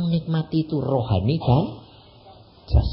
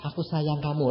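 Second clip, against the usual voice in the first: soft lover's words; 5 dB quieter than usual. Retold or imitated. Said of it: "sing laki bilang".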